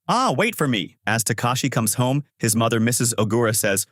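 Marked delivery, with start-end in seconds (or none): 0.1-1.0 higher-pitched call to wait; lightly acted calling after someone. A narrator's reading. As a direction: call after a friend, mildly urgent. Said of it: "As Takashi calls out".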